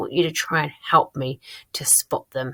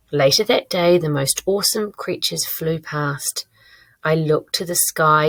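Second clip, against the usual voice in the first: lively, expressive reading of own diary; story read-aloud. Shown as a demonstration. Teacher reading own diary writing to the class, lively read-aloud. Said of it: "I'm going to read it to you now".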